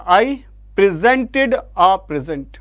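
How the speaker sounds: "presented" stressed on ZENT, "present" on PREZ; contrasting word stress. Shown as a demonstration. Teacher modelling verb and noun, "presented" second-syllable stress, "present" first. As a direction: slowly set pre-ZENT-ed against PREZ-ent in "presented a present". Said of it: "ऐसे बोला जाएगा बेटा".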